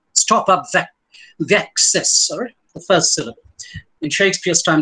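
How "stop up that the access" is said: "the access" run together as THACK-cess; elided "the". Shown as a demonstration. Lecturer showing modern actors' elision, "the access" as th'ACcess. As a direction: merge "the" into "access", stressing the first syllable. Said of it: "modern actors would say thack".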